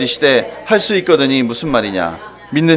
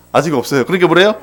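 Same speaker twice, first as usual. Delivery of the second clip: ordinary delivery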